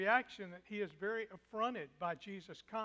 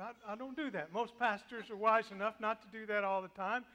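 ordinary talk, nothing marked

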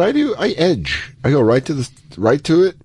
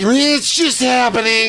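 squeaky, slowed, helpless; mock panic as it happens; high and slow, giving up; high strained voice; 11 semitones higher, slower than usual. Acting out losing control.

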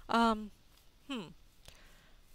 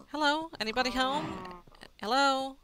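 calling out; 5 semitones higher, 6 dB louder than usual. Real, not acted. Calling into a house.

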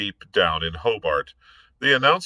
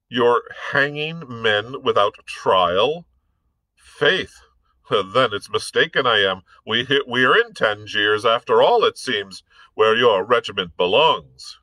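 Irish gentleman; 3 semitones higher, 3 dB louder than usual. Acted. Blood's dry Irish replies.

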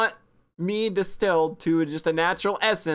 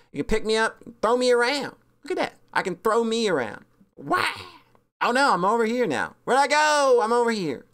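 lightly voiced cute plush toy, higher; plushie voice; 4 semitones higher than usual. Plushie of the streamer introducing itself, lightly voiced. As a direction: play the plushie chirping at viewers. Plushie being thrown around.

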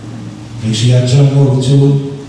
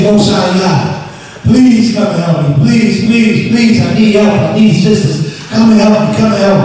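mildly acted plea, higher pitched; pleading cry; 4 semitones higher than usual. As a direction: beg for help in mock desperation. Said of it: "we may cry out to the Most High".

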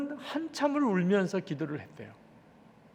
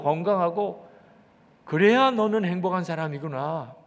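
lightly voiced God scolding a pastor; God's rebuke; 4 dB louder than usual. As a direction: reprove firmly, pressing louder on the key reproaches. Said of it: "그때 주님이 주시는 말씀이 있더래요". (하나님이 꾸짖는 듯한 말투)

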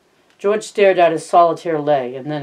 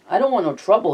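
higher, pleading little plea; plaintive; 5 semitones higher, faster than usual. Acted. Lenny pleads with George not to get in trouble, plaintive. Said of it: "he said plaintively".

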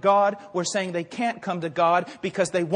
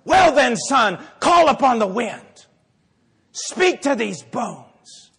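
slow, weighty command; a hint of divine authority, slowing at the end; lightly voiced God; 3 semitones higher, 5 dB louder, slower than usual. God to the prophet among dry bones, lightly voiced command. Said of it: "God looks at him and says".

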